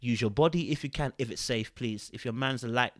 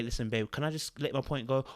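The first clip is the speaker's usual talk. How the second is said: calm soft voice; 5 dB quieter than usual. Shown as a demonstration. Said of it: "You can say".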